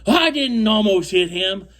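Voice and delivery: high, loud whiny denial then la la la; mocking Bob. The partner denies it and rants, mocked as high loud babble. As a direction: parody his rant as high babble. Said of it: "He goes".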